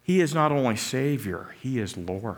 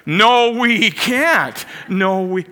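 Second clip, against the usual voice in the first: much higher, louder, slow despairing yell; crowd crying out; 7 semitones higher, 7 dB louder, much slower than usual. Retold or imitated. Fans shouting down the cheerleader, loud slow despair. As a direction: drown out the cheer. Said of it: "start to cry out".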